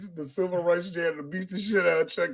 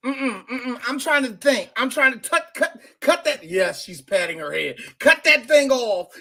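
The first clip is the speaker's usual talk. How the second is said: fussy teacher; 5 semitones higher than usual. Retold or imitated. Teacher voiced, patting her head.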